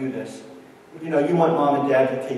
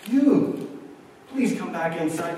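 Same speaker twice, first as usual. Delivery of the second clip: mock-tearful, pitched-up appeal; imitating near-tears pleading; 3 semitones higher, slower than usual. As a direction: act out an anxious man begging. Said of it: "a man who was virtually almost in tears".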